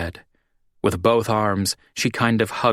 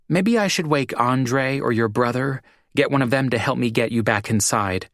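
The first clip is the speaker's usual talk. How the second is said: a hint of a concerned woman, raised pitch; gently worried friend coaxing; Jean, lightly voiced; 6 semitones higher than usual. A narrator's reading. Jean offers to fetch help, a light worried voice. Jean's voice in narration.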